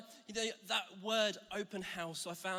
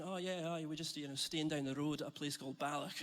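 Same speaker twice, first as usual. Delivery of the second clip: light Scottish accent, casual and chatty; 3 semitones lower than usual. Shown as a demonstration. Pastor showing how he chatted to train passengers in a Scottish accent. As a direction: slip into a mild Scottish accent as if to a stranger. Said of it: "Just talking to them like this".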